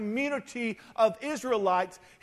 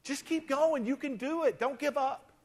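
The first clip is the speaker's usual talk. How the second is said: mock pep talk; 5 semitones higher than usual. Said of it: "That's our solution".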